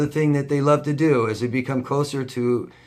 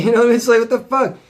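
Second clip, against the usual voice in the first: laughing outrage; 12 semitones higher, 8 dB louder than usual. Real, not acted.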